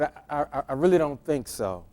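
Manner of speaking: quiet, even and calm; softly measured refusal hiding annoyance. Retold or imitated. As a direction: hold the anger back, keep it calm. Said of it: "I said it very calmly".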